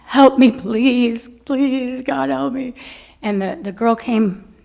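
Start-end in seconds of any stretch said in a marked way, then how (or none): 0.0-2.7 quiet plea. Retold or imitated. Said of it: "And I said".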